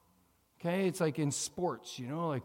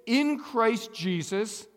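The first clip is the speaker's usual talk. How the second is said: in Christ Jesus with a slow, raised push on in; stress on in; 6 semitones higher, 4 dB louder, slower than usual. Shown as a demonstration. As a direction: lean into in, slow and higher. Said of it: "Put the little bit of emphasis on it like I did".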